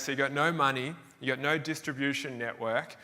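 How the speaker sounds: put-on the factory owner laughing at a broke eighteen-year-old; mocking laughter. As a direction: laugh it out at the naive kid.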